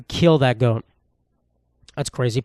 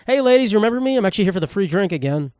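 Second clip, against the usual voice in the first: mock greeting; 5 semitones higher, faster than usual. Imagined self greeting strippers.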